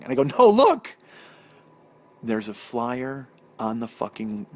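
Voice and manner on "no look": much higher, loud wail of despair; showing his wife the sign, wailing loud and high; anguished cry. Retold or imitated. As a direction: cry it out in disbelief. Discovering broken hot tub.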